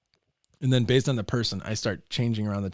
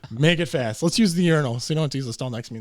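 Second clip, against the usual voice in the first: hurried dad, laughing; 3 semitones higher, 5 dB louder, faster than usual. Retold or imitated. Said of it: "he's like".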